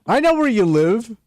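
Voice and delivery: sinister phone creep; creepy stalker voice. Pretend. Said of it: "That was creepy".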